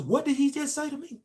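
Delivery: high, stunned inner question; stunned, can't believe what you heard; retelling the shock when a coworker used the word; shocked disbelief. Retold or imitated.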